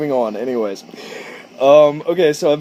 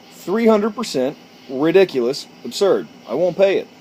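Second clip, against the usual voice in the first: mock outrage; 5 semitones higher, 3 dB louder than usual. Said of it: "stormed into his office and said".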